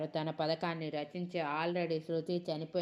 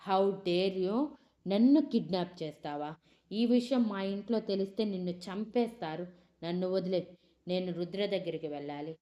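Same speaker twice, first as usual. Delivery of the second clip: furious shout; 2 semitones higher, 6 dB louder than usual. Acted. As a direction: scream at the kidnapper in fury. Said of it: "అని అరుస్తూ ఉంది". (కోపంగా అరుపు)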